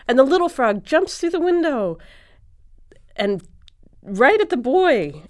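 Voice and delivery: high, loud, joyful storytelling; thrilled narration. A narrator's reading. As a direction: burst out with the happy surprise. Joyful climax, little frog returns.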